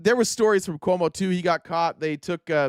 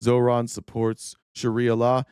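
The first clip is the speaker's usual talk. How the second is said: imitating a troll; 3 semitones lower, slower than usual. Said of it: "somebody comes up and says".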